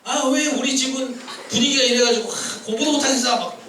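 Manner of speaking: mock-grumble about your lot; acted complaining. Preacher voicing a student blaming home, mock whiny complaint. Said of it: "불평한다는 거지".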